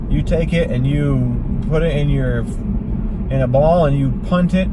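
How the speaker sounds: Sean Connery. Acted. Host rallying Alex Trebek against cancer, Connery parody. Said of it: "The comedian that did the impersonation of Sean Connery".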